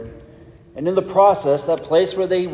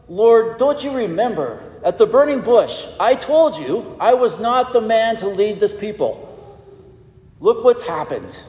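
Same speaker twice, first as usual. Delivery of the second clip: complaining Moses; 5 semitones higher than usual. Retold or imitated. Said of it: "You could almost hear Moses saying".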